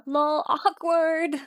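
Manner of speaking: put-on drawn-out mean-girl jeer; mocking girls. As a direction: drag it out to mock him. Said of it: "they still make sure to add one more".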